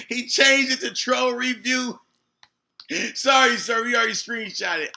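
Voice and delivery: high, loud, laughing callout; gleeful gloating. Real, not acted. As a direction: crow it loudly with a laugh. Gloating over rival's changed title.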